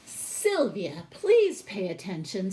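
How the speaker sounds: a firm classroom telling-off; teacher scolding. Acted. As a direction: call her back to attention like a strict teacher. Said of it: "said Missus Ms. Oliver".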